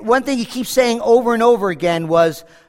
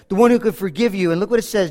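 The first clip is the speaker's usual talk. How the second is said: ordinary talk, nothing marked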